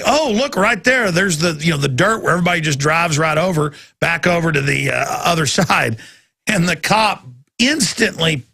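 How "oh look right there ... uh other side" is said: retold thought. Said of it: "And I'm like".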